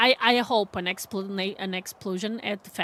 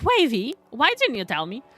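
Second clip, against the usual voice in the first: fake-outraged call to a friend who never corrected her; mock complaint; 2 semitones higher, 5 dB louder than usual. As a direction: complain in jest, pitching it up. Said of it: "and I'm like".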